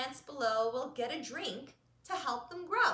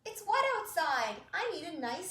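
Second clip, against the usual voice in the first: hen voice; 5 semitones higher than usual. Acted. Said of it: "said Hen".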